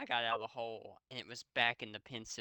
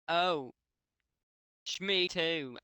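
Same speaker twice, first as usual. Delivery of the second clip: shrieked; 4 semitones higher, 4 dB louder, slower than usual. A narrator's reading. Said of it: "I shrieked".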